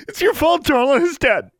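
very high, loud blaming scream; anguished yell. Acted. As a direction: scream the blame out. Mary breaks down blaming.

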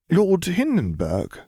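put-on confused girl. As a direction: drag the name out, baffled. Hermione confused question.

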